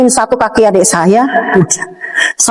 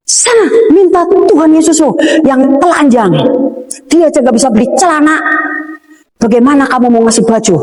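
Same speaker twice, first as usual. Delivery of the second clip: higher-pitched mock taunt; imitated sibling; 4 semitones higher than usual. Sibling mocking her faith in the car, lightly acted higher-pitched taunt. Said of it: "adik saya bilang gini".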